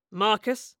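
mildly scornful echo; spat in contempt. A narrator's reading. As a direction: spit out the name as a question. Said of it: "Quintus spat".

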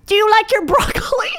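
teasing high Asian accent impression; teachers mimicking accent. Teachers teasing Mackenzie about broccoli, high mocking Asian accent. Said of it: "the teachers start going".

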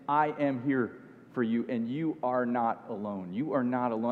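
God gently assuring Elijah he is not alone; tender God. Acted. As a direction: comfort him quietly, as God would. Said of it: "it's a God who's saying".

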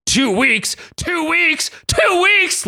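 escalating high-pitched screech; incredulous cartoon shriek, climbing; mock screaming. A narrator's reading. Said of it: "Logan screamed directly into".

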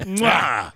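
loud kissing smack; chef's kiss smack. Pretend. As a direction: smack lips like a chef.

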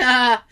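imitated short nervous laugh; quick put-on nervous laugh. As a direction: mimic an uneasy little "ha". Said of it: "She did this nervous laugh".

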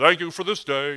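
mock automatic thanks; unthinking rote prayer. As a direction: rattle off a habitual prayer without thinking. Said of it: "like we're not even thinking about it".

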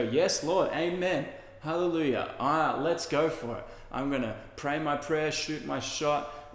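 hammed-up amen-and-hallelujah enthusiasm; mock motivated hype. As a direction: cheer yourself on like a pumped-up churchgoer. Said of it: "it's this motivation, it's this ins-, inspiration".

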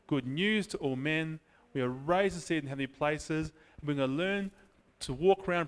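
slow, earnest prayer voice rising toward the end; closing prayer. Acted. Preacher praying to the Father, slow and earnest. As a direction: pray it over the congregation, building.

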